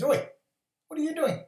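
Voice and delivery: very high squeaky lizard voice; tiny high-pitched lizard calling up; lizard character. Acted. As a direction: pipe up as a tiny cartoon lizard. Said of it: "He goes".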